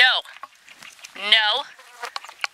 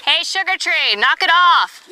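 much higher sing-song scold at the dog; high pet scolding; 11 semitones higher, 4 dB louder than usual. Real, not acted.

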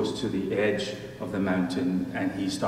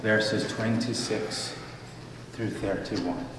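measured, solemn reading of scripture; 3 dB quieter than usual. Acted. Pastor reading scripture to the congregation, solemn and measured. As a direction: read the passage out to the congregation.

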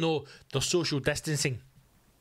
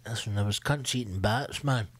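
conspiracy bloke; 5 semitones lower than usual. Retold or imitated. Comic mocking people blaming bat-eaters, in a low put-on voice. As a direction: lower put-on voice of a gossiping bloke. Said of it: "people have started things like".

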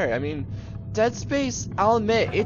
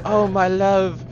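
mock romantic; 3 semitones higher, much slower than usual. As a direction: swoon it out slowly, hammed-up. Mock romantic toast to ink.

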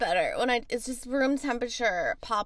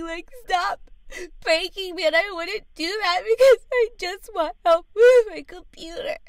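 high, tearful protest, building louder; fake crying; 5 semitones higher, 7 dB louder than usual. Caller begs tech helper for computer help, crying. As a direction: protest through put-on sobs. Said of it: "Please, please stop crying".

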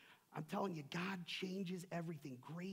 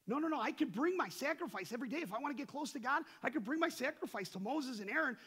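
loud, raised-pitch protest, lightly acted; insistent worshipper; 8 semitones higher, 10 dB louder than usual. Worshipper explains he can bring sacrifices, mildly acted insistence.

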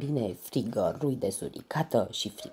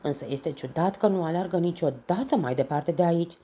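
higher, louder, excited rabbit voice; eager rabbit call; 6 semitones higher, 5 dB louder, faster than usual. A narrator's reading. Rabbit puzzling over Norbert's path, calling out. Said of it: "strigă un iepure săritor".

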